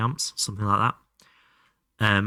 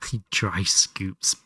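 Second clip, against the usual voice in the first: chuckling through the words; amused disbelief; giggling read; laughing; 3 semitones lower, slower than usual. Real, not acted. Laughing at chat message.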